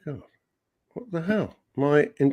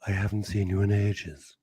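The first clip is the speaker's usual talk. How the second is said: lightly mimicked mother, slightly lowered; Linda impression; 4 semitones lower than usual. Co-host playing Phil's mother greeting him, light impression. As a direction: put on a hint of a mother's low reproach. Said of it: "That's how Linda talks".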